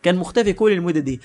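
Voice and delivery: incensed villain, lightly acted; angry disbelief. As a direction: demand an answer, mildly hammed-up anger. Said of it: "وزعيم الشياطين اتعصب فشخ".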